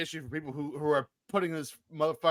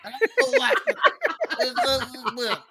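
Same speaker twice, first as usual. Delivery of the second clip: slow, high and loud comic impression; hammed-up impersonation, drawn out and pitched up; Bill Cosby; 8 semitones higher, 6 dB louder than usual. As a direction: drag it out in an exaggerated celebrity voice. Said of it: "I think Bill Cosby should be in it".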